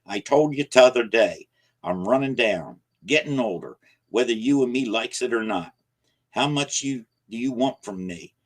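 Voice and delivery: put-on old man worn down and angry; weary anger. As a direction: complain that he's worn out. Weary old man pleading angrily.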